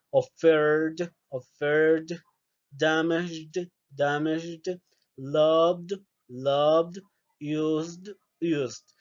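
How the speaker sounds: "offered", "loved", "used" ending in a D sound; teacher modelling D endings. Shown as a demonstration. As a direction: drill each verb twice with a D ending. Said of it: "va a ser una D".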